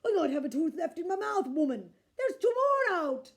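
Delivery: loud pained holler; hollering giant. A narrator's reading. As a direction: holler in pain. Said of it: "Cuchulainn hollered even louder".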